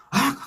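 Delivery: sharp high mock shriek of annoyance; imitated angry yell. Restaurant customer yelling at the minister, mock yell. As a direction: yelp it out like an irritated diner. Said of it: "하고 소리를 지릅니다".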